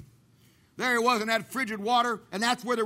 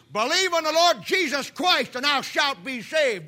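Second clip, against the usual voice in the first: preacher calling out; 3 semitones higher than usual. Retold or imitated. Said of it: "a man's voice with a deep Scottish brogue".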